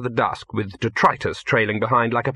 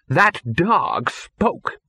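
shocked; 7 semitones higher, much slower than usual. A narrator's reading. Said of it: "pointing a shaking finger at him".

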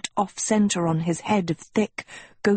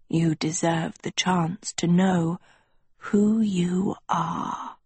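hushed schoolmaster, slowing at the end; slower than usual. Acted. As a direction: let it sink into a slow whisper.

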